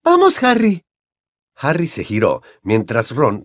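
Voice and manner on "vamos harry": high-pitched, pressing urging; urgent plea. A narrator's reading. Hermione hurrying Harry out of the clearing, urgent. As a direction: beg him to come away.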